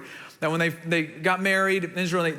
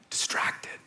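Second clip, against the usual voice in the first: breathed in a whisper; a whispered "distracted"; 6 dB quieter than usual. Real, not acted. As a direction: let the word fall to a hush. Dramatic whispered contrast word.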